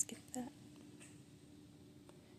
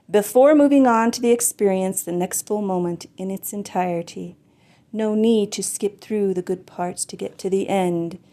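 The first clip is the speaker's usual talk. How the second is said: louder, projected poem recital; poetry reading; 7 dB louder than usual. Acted. Poet tries next poem for online listeners, projected poetry reading. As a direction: declaim the poem, pushing out each opening phrase.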